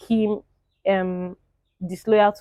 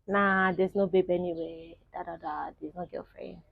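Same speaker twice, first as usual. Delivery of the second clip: Diamond's casual denial; 3 semitones lower, 11 dB quieter than usual. Retold or imitated. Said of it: "what did Diamond say?".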